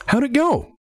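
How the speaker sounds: high-pitched, intense check-in; intense captain. Acted. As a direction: ask it as an intense captain looming behind. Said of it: "comes up behind you silently and intensely".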